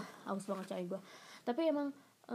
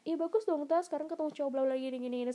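teasing friends; 6 semitones higher, 5 dB louder than usual. Retold or imitated. Friends teasing about meeting guy.

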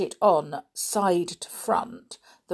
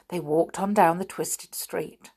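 ordinary delivery

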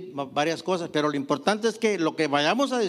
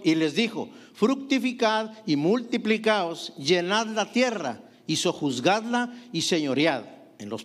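scripture reading. Acted. Preacher reads Genesis 1:28.

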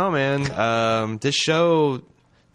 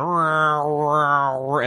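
mock explosion noise; 5 semitones higher, 3 dB louder, much slower than usual. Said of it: "they would be going".

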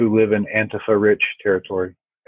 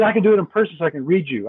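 imitating deaf friend; 6 semitones higher, faster than usual. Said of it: "he goes".

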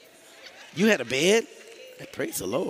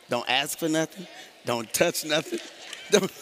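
parent warning; 3 semitones higher than usual. Retold or imitated. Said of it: "Anybody ever told this line?".

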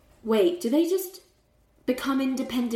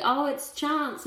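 put-on slow, higher, hopeful little kid; hopeful child; 6 semitones higher, slower than usual. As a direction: say it like a kid who dares to hope, slowly. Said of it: "child's like".

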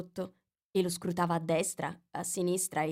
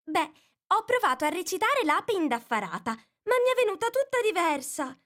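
very sad; 12 semitones higher, 4 dB louder than usual. A narrator's reading. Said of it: "con voce tristissima".

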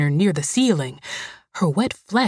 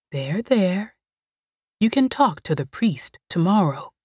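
Greasy soothing. Acted.

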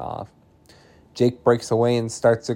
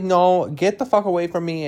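higher-pitched acted rebuff; retold angry refusal; 5 semitones higher than usual. Ellie tells Jake to back off, retold angry refusal. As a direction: act out pushing him away, pitched up.

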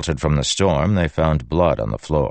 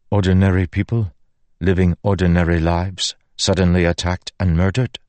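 horrified protest; 4 semitones higher, 3 dB louder than usual. Acted. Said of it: "Zeth horrified questioning".

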